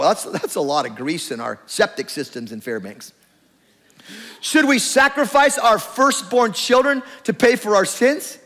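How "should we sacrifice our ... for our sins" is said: sarcastic lilt. Shown as a demonstration. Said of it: "like a sarcastic teenager".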